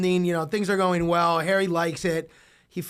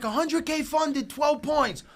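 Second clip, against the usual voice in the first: announcing shout; 9 semitones higher, slower than usual. Retold or imitated. Announcing a funded deal.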